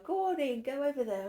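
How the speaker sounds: gently shooing him away, pitched high; coaxing high voice. Real, not acted. Shooing the pet or child.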